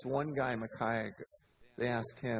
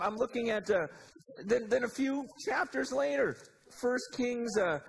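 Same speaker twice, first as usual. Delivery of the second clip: ordinary talk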